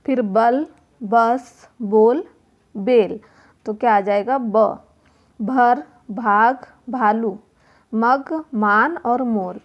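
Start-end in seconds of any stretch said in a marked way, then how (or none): 0.2-3.2 "बल", "बस", "बोल", "बेल" said one by one; pronunciation demo. Shown as a demonstration. Teacher drilling the b sound in "बल" and "बेल", pronunciation demo. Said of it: "का उच्चारण होगा". 5.4-9.6 "भर", "भाग", "भालू" slowly, one by one; pronunciation demo. Shown as a demonstration. Teacher explaining word sounds in "भर" and "मग", slow pronunciation demo. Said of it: "उच्चारण के आधार पर इन शब्द ध्वनियों को समझाया".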